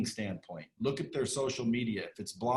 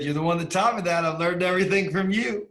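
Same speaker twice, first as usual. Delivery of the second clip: quoting Grant; 6 semitones higher, 6 dB louder than usual. Retold or imitated. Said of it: "He said".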